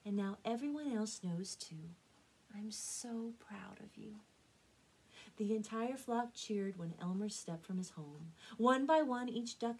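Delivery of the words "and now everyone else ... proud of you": proud, softening mama voice; tender near-whisper. Acted. Mama privately praising her son, tender and softening. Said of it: "she whispered to him".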